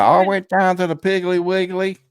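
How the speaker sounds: exaggerated American country accent; mock American accent. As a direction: do a broad, cartoonish American. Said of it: "I learned my American accent".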